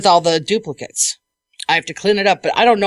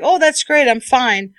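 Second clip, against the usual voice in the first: breezy client; 5 semitones higher, slower than usual. Retold or imitated. Mocking client's breezy reply.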